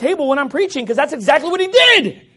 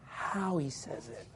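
mock the critic's prissy complaint; whiny critic; 6 semitones lower, 14 dB quieter than usual. Preacher mocking a churchgoer's complaint, soft and whiny. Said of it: "they're like".

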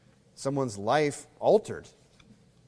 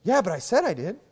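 mock backstabber; 6 semitones higher than usual. Backstabber excuse.

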